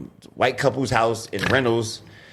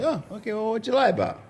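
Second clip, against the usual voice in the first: retold wary reply; 10 semitones higher, 5 dB quieter than usual. Retells own wary reply to date.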